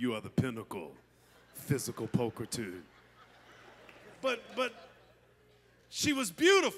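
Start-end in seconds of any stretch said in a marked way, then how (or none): 0.0-2.8 cool, dropped-down, very low, quiet voice. Telling the fellas what to say to their wives, demonstrating: cool, lowered voice. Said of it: "drop your voice down".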